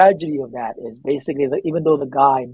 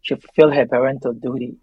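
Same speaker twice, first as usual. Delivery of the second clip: reading from his memoir. Acted. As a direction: read the memoir passage with reverence. Begins reading memoir excerpt.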